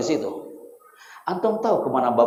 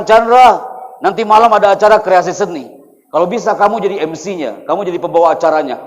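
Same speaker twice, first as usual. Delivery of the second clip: father's command; 3 semitones higher, 9 dB louder than usual. Acted. Father tells young son he will host tonight's show, loud and commanding. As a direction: call out the order like a father. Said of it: "Bapak saya mengatakan".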